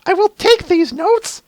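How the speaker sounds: very high, slow, building to a shout; eager student shouting her resolve; Twilight voice. Acted. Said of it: "that was the first thing I thought of was that meme".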